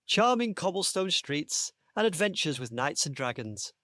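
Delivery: measured read-aloud storytelling; story narration. Acted. Host reading his story pitch to the panel, story narration. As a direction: tell it like a children's story.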